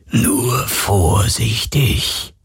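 very slow, drawn-out spectral murmur; ghostly murmur. Acted. The phantom explains its caution, slow and murmured. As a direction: linger over it like a wary spirit. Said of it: "raunte die Geisterstimme".

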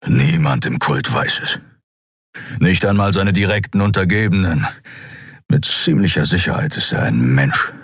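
a lightly voiced gruff beast, grave; a hint of a brooding creature; Skria Keru. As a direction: confess it heavily, like a guilty giant. Keru explains the cult.

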